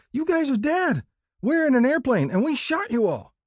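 put-on high-pitched boyish yelling; kids' triumphant shout. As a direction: crow it loud and high like kids at play. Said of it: "We shouted".

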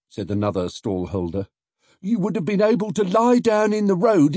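high, loud excited trader's voice; scheming stallholder. Acted. Stallholder imagining a protest, high and loud. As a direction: paint the picture eagerly.

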